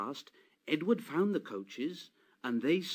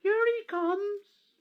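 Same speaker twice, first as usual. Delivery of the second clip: much higher, louder, slow shout; 6 dB louder, slower than usual. A narrator's reading. Little boy spotting the late guard, high slow shout. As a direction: call it out across the platform. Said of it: "a little boy shouted".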